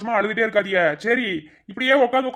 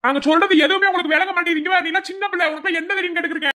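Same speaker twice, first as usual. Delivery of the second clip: angry scolding; 5 semitones higher than usual. Acted. Relative scolding the daughter.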